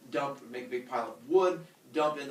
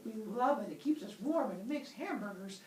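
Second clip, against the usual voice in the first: higher, lilting put-on human voice; gushing humans; 8 semitones higher than usual. Humans tell the god they love fire, gushing. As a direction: gush in a high, singsong voice.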